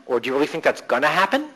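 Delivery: "gonna" leaned on in a rising question; stress on GONNA. Shown as a demonstration. Coach challenging a client's expectation, stress on "gonna". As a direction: question it through the word "gonna". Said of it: "You might wanna try".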